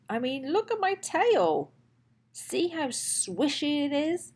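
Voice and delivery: put-on eager, chatty kid-dinosaur voice; lightly voiced young dinosaur, pleading; Dexter the little dinosaur. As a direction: play a lonely little T. rex looking for his friend. Dexter worries, then boasts.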